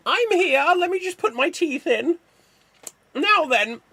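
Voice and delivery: put-on high old lady voice with loose dentures; squeaky granny talking around her teeth. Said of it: "where is Laura Dern?".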